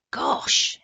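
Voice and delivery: loud breathless exclamation; exclaiming. Acted. Indian boy reacts to seeing the leopard, loud. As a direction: gasp in surprise. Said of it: "exclaimed the Indian".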